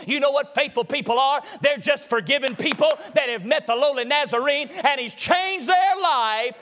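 chanted, musical preaching at full force. Acted. Preacher telling the congregation about Magdalene, sung and rhythmic. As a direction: whoop the story of Mary like a revival sermon. Whooping sermon over organ music.

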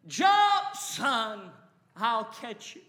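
put-on urgent father calling out to his child; yelling. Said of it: "So he kept yelling".

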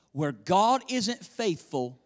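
ordinary talk

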